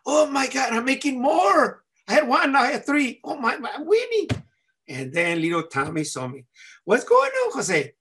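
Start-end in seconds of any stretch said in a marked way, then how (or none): 0.1-4.3 put-on high, giddy kid bragging; overjoyed. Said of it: "I was so happy". 6.8-7.9 put-on high-pitched kid's hello; little Tommy greeting. Little Tommy greets him in the story.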